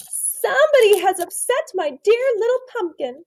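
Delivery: hushed, breathy whisper up high; whispered mommy line. A narrator's reading. Teacher voicing the mommy person to the class in a whisper. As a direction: whisper it like a worried mum. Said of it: "said the mommy person".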